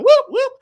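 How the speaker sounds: high, loud car-alarm whoops; imitated car alarm. Storyteller imitates a rental car answering the remote, high and loud. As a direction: mimic a car chirping back. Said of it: "trying to see which car's going".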